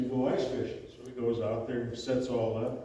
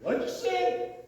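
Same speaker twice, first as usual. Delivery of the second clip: high, baffled question; puzzled question; slower than usual. Retold or imitated. Newbie asking Chuck to repeat, high and baffled. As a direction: ask it much higher, confused. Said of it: "Newbie goes".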